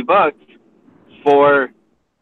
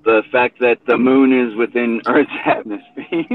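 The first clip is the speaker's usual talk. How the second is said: laughing. Real, not acted. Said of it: "I can't say that with a straight face".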